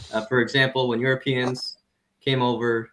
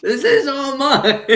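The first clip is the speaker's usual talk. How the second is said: desert hoarder; 12 semitones higher, 6 dB louder, slower than usual. Acted. Hoarder guy alone in desert.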